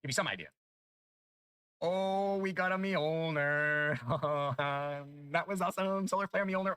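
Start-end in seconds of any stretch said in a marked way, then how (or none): 1.8-6.8 excited. Real, not acted. Excited loot drop reaction.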